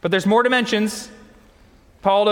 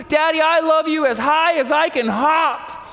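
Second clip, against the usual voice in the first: put-on baby bunny; 7 semitones higher than usual. Baby bunny voiced in story.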